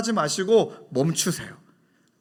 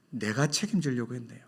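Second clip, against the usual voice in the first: contrite prayer; 6 semitones lower, 9 dB quieter than usual. Pretend. Confessing prayer to God.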